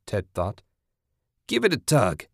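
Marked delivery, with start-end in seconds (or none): 1.5-2.3 heckling shout. Acted. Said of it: "the man with the exposed private shouted".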